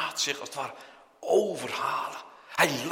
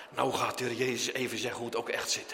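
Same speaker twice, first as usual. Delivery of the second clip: normal talking voice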